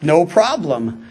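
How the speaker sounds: breezy, self-satisfied list with little pauses; mildly smug mock self-approval. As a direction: tick each one off smugly. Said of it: "those who would smugly look at the law".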